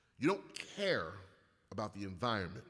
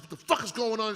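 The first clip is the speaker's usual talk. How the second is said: mock outraged wife; 6 semitones higher, 8 dB louder than usual. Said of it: "she's like".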